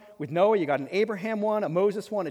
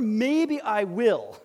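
mock hesitant; 3 semitones higher, 3 dB louder, much slower than usual. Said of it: "there is no".

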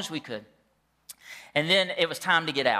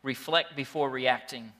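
slow and deliberate; 2 semitones lower than usual. Shown as a demonstration. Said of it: "here's your first thing that we can write down".

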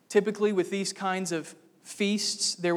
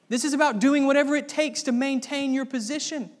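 loud, higher, contemptuous command; Saul's scorn; 7 semitones higher, 5 dB louder than usual. Retold or imitated. Saul scolding his son Jonathan, loud contemptuous voice. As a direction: bark it at Jonathan like a scheming king. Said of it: "That's what Saul says".

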